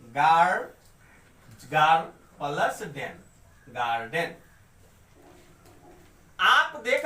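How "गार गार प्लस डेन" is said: गार and डेन said as separate beats; split into syllables. Shown as a demonstration. Teacher shows two syllables in garden, गार and डेन split apart. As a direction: break it up: गार, pause, plus डेन. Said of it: "गार्डन का मतलब".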